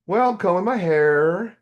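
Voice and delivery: innocent reply. Retold or imitated. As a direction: play it matter-of-fact and innocent. Retold innocent reply to God.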